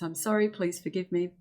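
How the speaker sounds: a warm promise to yourself; heartfelt affirmation. Shown as a demonstration. Scene: Susan promises her body she will listen, heartfelt. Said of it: "So it's".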